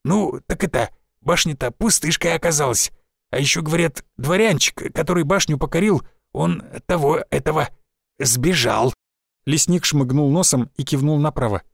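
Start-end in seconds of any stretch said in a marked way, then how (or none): 0.0-8.9 lightly voiced old village forester; a folksy old woodsman, a touch rough.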